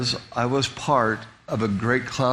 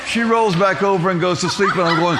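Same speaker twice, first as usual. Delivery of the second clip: laughing while telling; 6 semitones higher, 5 dB louder than usual. Real, not acted. Laughing through the story.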